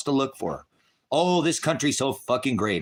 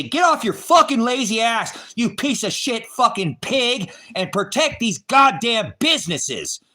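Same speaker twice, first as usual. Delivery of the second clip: high, loud, slow shouting at a cop; mock yell at sheriff; 10 semitones higher, 5 dB louder, slower than usual. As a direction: bellow it at the lazy sheriff, drawn out. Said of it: "protest your sheriff and say".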